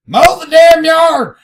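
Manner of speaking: loud, slow yell; yelling wife. Retold or imitated. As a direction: bellow it across the yard. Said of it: "their wife yelling".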